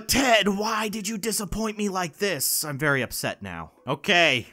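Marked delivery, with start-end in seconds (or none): 0.1-2.6 slow, drawn-out mock scolding; hammed-up letdown wail; mock disappointed. Scolding a toy turtle.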